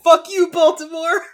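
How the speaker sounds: high, loud taunting cartoon voice; Monokuma. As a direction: jeer it like a gleeful mascot. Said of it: "Monokuma was like".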